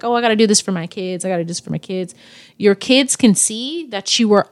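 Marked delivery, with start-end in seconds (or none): 0.0-1.2 mock excuse. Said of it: "they say, like". 1.2-2.1 softer mock repeat. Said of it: "they say, like".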